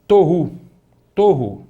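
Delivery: Tohu, stress on to- with a long o; teacher giving an example of holem; Hebrew word model. Shown as a demonstration. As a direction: say Tohu clearly twice. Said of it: "Veja só essa palavra".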